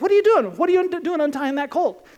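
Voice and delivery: sharp, high what are you doing; startled owner. Retold or imitated. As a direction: catch them in the act, alarmed. Donkey owner challenges disciples.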